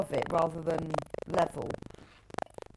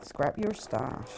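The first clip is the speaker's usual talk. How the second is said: slow, lower-pitched Bristolian drawl; Bristol accent; 4 semitones lower, much slower than usual. Shown as a demonstration. Joking about doing the show in Bristol, deliberate Bristol accent. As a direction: say it slowly in a put-on Bristol accent. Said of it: "in Bristol accent".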